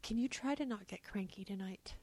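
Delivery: whispering a secret; hushed child's secret. Retold or imitated. Parent retelling son's whispered bedtime request. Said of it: "He's like".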